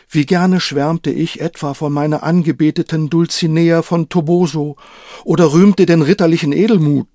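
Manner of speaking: a hint of a proud old knight. Voices the knight Quixote.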